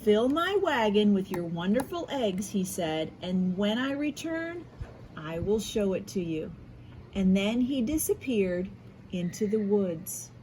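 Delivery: lively read-aloud storytelling with voiced quotes; story narration. A narrator's reading. Teacher reading an Easter story to her class, lively storytelling. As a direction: read it like a picture book to young kids.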